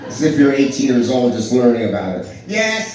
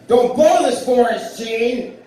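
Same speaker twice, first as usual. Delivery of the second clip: big line yelled; 11 semitones higher, slower than usual. Retold or imitated. On the SNL stage, shouting the big line at Gene. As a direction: bark it like the big comic line. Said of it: "a very important line is".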